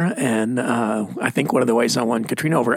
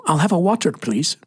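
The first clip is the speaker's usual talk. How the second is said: put-on Scottish accent; 3 semitones higher than usual. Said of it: "Mesquite, Texas".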